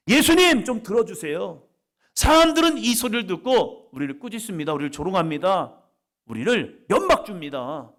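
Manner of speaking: loud, high desperate plea; pleading cry. Acted. Blind men pleading with Jesus, a loud high plea. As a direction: beg to be heard over the crowd.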